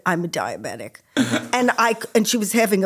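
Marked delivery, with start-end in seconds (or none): 0.1-1.0 low, quiet mumble; mumbled. Retold or imitated. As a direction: mumble it weakly under your breath. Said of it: "she mumbled a little bit".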